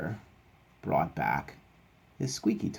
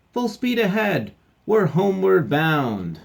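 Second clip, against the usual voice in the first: high, loud sailing order; captain's call; 13 semitones higher, 12 dB louder, slower than usual. Acted. Captain ordering the ship homeward, high hearty shout.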